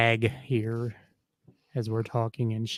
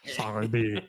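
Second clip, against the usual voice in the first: French chef; 4 semitones lower, 7 dB quieter than usual. Pretend. Echoing mock French.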